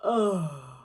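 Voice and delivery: dropped-jaw Oh sigh; low relaxed sigh. Shown as a demonstration. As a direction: let the jaw drop and sigh Oh. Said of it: "So do it again".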